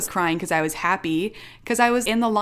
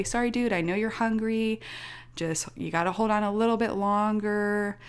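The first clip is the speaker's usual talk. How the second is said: soothing parent; 3 semitones higher, 3 dB quieter than usual. Retold or imitated. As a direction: placate a hungry toddler. Parent voiced soothing her child.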